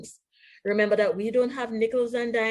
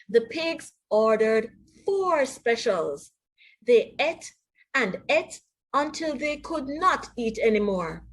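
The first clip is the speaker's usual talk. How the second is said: lively storybook read-aloud with voiced characters; animated picture-book narration; reading to children; slower than usual. A narrator's reading. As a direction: read it like bedtime story time for kids.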